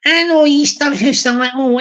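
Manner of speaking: mock Glaswegian, starting from a laugh; Glaswegian accent. Shown as a demonstration. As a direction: read it in a put-on Glaswegian accent. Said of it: "I'll do it with a sort of Glaswegian".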